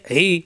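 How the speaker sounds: ই with pressure in the throat; pressed throat. Shown as a demonstration. Teacher showing learners the letter ই, pressed from the throat. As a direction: press the throat as you sound ই. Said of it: "কণ্ঠনালীতে চাপ দিয়ে".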